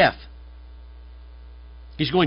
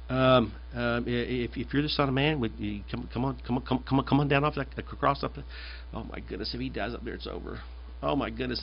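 panicking devil; 4 semitones lower, 10 dB quieter than usual. Acted. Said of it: "you can almost hear the panic".

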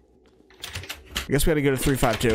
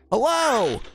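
calling out; 11 semitones higher than usual. Acted. Calling out in empty hotel.

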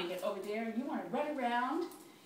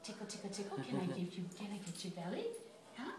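whisper-coo while tickling the dog; giggly tickle attack; 2 semitones lower, 11 dB quieter, faster than usual. Real, not acted.

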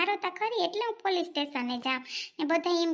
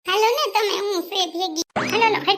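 urgent call; 4 semitones higher, 6 dB louder than usual. Acted. Pleading to go along.

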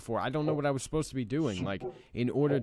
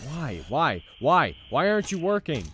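building frustration; 5 dB louder than usual. Real, not acted. Player pleading with a broken game, why building into a loud yell. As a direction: escalate from mutter to shout. Repeated why getting louder.

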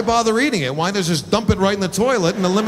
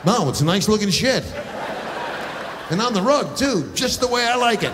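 higher, nervous flattering backdown; timid appeasing; 5 semitones higher than usual. Pretend. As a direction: suck up to the scary dog.

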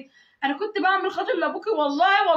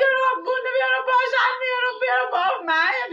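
retold screaming prayer; 5 semitones higher than usual. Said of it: "اصوت كده".

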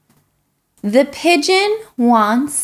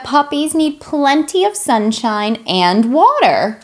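lightly voiced pushy pigeon, pleading and dramatic; a hint of a whiny, excitable bird; pigeon character; 3 semitones higher, 3 dB louder than usual. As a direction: play the eager pigeon begging for a puppy. Reader voices the pigeon throughout.

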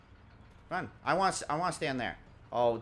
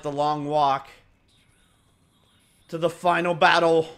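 louder, dramatic build toward the final battle; epic movie trailer voice; 8 dB louder than usual. Pretend. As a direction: announce it like an epic showdown. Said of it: "I don't know why I'm talking like this".

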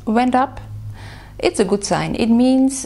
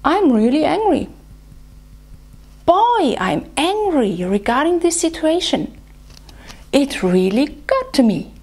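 raised, pitched-up show of anger; voicing anger; 5 semitones higher than usual. Shown as a demonstration. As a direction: demo of angry venting, a burst on Boy. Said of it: "So I will continue with anger".

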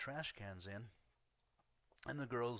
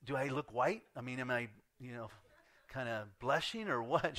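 mock worried, loud questioning; retold self-conscious worry; concerned; 2 semitones higher, 7 dB louder than usual. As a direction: play up growing concern for laughs. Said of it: "now I'm getting concerned".

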